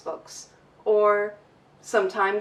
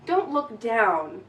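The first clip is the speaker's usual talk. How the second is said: ordinary talk, nothing marked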